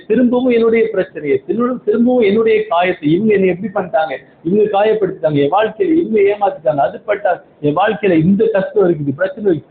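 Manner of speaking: lightly acted litany of grievances, pitched a little up; mock complaining. Preacher imitating a believer retelling hurts to God, mildly mock complaining. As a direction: reel off troubles like a habitual complainer, hurrying in places.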